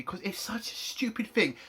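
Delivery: whispered fury under the breath; angry whisper. Real, not acted. Reviewer seething at a stupid plot, angry whisper. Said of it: "I'm so fucking angry".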